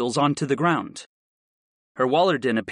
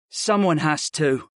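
sighing; slower than usual. Acted. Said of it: "the boy sighed".

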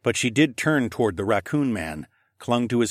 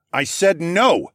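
loud, higher, drawn-out refusal; barked order; 7 semitones higher, 5 dB louder, slower than usual. A narrator's reading. Parent refusing the protesting son, barked. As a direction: bark it slowly and firmly. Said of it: "I barked".

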